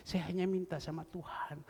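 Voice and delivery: usual speaking voice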